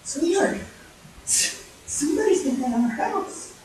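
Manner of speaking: gently stammered worry to a husband; timid Mama Bear. Acted. Mama Bear follows Papa, speaks.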